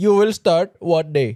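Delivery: mock, put-on Indian accent. Acting out a job-application example, in a put-on Indian accent. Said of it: "nag-Indian accent".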